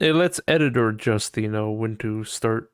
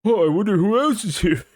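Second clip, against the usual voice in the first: high, louder, fake-curious; mock wonder; 10 semitones higher, 6 dB louder than usual. Mocking how Discord expects him to react, high and fake-curious. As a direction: pretend to be puzzled. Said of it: "think I'd be like".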